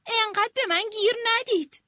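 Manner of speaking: angry shout. Acted. Queen shouting angrily at her servants. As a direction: explode at them. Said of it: "با عصبانیت فریاد زد".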